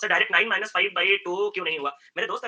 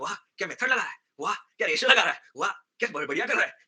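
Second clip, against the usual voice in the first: mock praise. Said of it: "similarly आप लोग".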